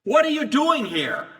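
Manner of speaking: high, loud unfriendly demand; hostile challenge. Shown as a demonstration. Demon confronting Jesus, a loud unfriendly challenge. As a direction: bark it like the person isn't welcome. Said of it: "It usually isn't a friendly question".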